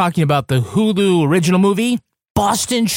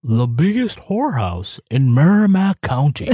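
put-on Fritz Weatherby accent; 5 semitones lower than usual. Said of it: "I'll do it".

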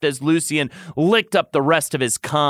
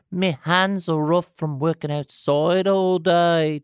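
higher-pitched mild protest; 5 semitones higher than usual. A narrator's reading. Tamlin answers the lover's compliment, protesting. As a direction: object modestly in character accent. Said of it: "Tamlin protested".

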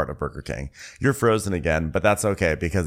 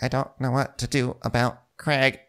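mock sobbing; 5 semitones higher than usual. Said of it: "She's like".

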